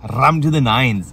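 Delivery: put-on slow Bradford-accented catchphrase. Host borrowing a friend's catchphrase, drawn-out Bradford accent. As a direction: stretch out "rammed" in a Bradford accent. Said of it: "as my friend Mister Munchbox says".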